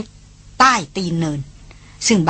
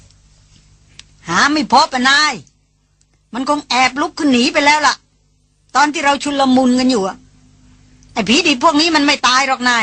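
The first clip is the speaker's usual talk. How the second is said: a porter calling up from below, pitched higher; lightly played hunter's helper, raised voice; mild called-out report; 5 semitones higher than usual. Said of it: "ตะโกนบอกขึ้นมาว่า". (ลูกหาบตะโกนรายงานนายจากข้างล่าง เสียงสูงขึ้น)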